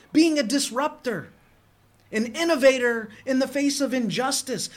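a pastor urging his flock, impassioned preaching. Acted. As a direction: preach it to the congregation with conviction. Preaching with rising force.

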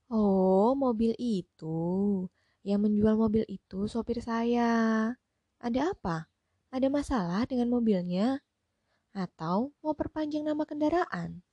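put-on a curious older lady firing questions; lightly voiced rich lady. Hostess voiced, lively questions. (nyonya rumah yang penasaran, suara sedikit dibedakan)

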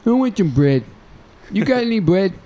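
put-on high, slurring drunk voice; town drunk. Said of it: "He's like".

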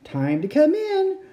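high loud call. Acted. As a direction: call from afar. Calling across distance.

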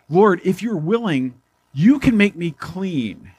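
slow, lightly voiced pleading leper; humble plea. Leper begging Jesus on knees.

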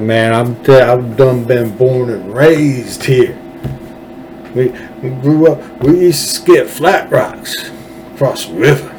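put-on politician hamming up a slow country accent; put-on Texas drawl. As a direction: lay the folksy Texan on thick. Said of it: "they go from talking like this".

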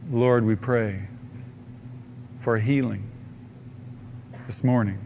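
earnest pastoral prayer. Real, not acted. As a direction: pray over the congregation, steady and sincere. Pastor leads closing prayer.

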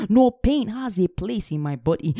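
fervent, rhythmic confession of faith; preaching declaration. Acted. Preacher declaring faith over the congregation, fervent. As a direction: proclaim each line with conviction.

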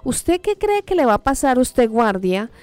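defiant warning. Retold or imitated. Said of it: "empezó a decir".

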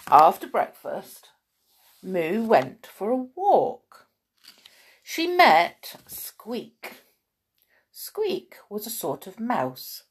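slow storytelling with lingering key words; measured picture-book reading; children's story narration. A narrator's reading. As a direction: read it to small children, pausing between phrases.

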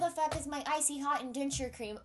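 put-on kvetching old Jewish voice, loud and high; yiddish accent. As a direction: grumble like an old bubbe. Complaining like old person.

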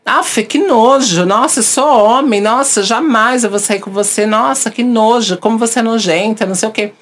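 imitating a man's scornful disgust; mock disgusted man.

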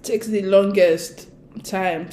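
talking through hiccups. Real, not acted. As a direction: hiccups breaking up the words. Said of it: "Sorry, guys, I have hiccups".

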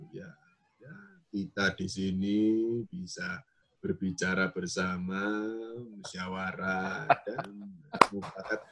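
soft slow presidential Jokowi; Jokowi impression. Shown as a demonstration. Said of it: "transisi gue dari Obama ke Jokowi".

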